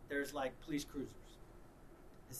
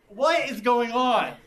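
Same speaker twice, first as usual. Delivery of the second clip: bewildered; 5 semitones higher, 12 dB louder, slower than usual. Retold or imitated. Bewildered quote at the cat.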